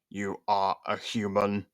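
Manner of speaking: slow, level electronic robot. Acted. Robot questioning Liam, slow robotic monotone. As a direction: speak like a cold machine.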